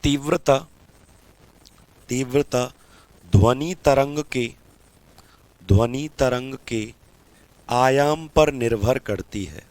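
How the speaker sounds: slow, softening dictation. Shown as a demonstration. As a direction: read it out so they can write. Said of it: "लिखो".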